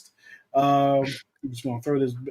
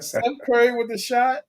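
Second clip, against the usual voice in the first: mock announcer; 7 semitones higher than usual. Mock sports call.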